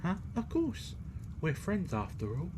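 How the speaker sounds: put-on very high small boy; a high, light child's voice; childlike voice. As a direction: squeak it like a little boy. Child character replying.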